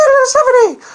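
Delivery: high, loud, squeaky mock-girl voice; Stephanie imitation. Host imitates eager young Stephanie for viewers, high squeaky voice. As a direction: pitch way up like a bloodthirsty little girl. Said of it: "That's my Stephanie imitation".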